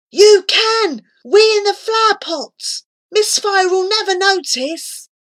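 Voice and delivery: high loud urgent coaxing; urging. A narrator's reading. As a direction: push him to do it. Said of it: "Flora urged".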